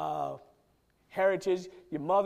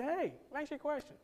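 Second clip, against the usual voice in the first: pointed question; 4 semitones higher, 5 dB quieter than usual. Retold or imitated. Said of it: "I ask 'em this question".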